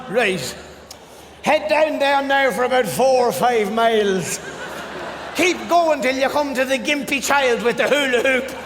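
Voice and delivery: lightly voiced rambling Irish direction-giver; Irish sat nav man. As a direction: give directions like a chatty local. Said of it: "your man went on".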